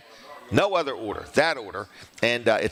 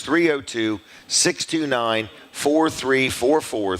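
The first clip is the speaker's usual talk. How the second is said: slow, measured digits; each digit drawn out for note-takers; slow dictation; slower than usual. Real, not acted. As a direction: spell out the number unhurriedly. Dictating second phone number.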